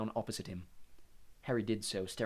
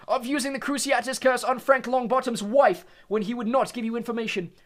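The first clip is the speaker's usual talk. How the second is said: bellowed; 13 semitones higher, 9 dB louder than usual. Acted. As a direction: bellow the charge at the prisoners. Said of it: "bellowed Mister Crouch".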